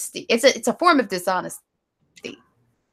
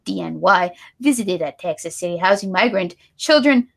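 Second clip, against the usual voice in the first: badly faked Spanish accent. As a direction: read the news in a hammy Spanish accent. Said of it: "A really bad Spanish accent".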